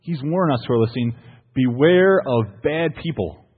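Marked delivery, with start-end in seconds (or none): 1.5-3.4 slow, louder, ominous warning; ominous mock warning. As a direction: drag it out like a grave caution. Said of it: "he says".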